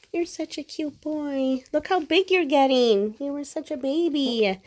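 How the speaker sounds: high sing-song pet talk. Real, not acted. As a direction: coo up high at the puppy. Cooing at pets.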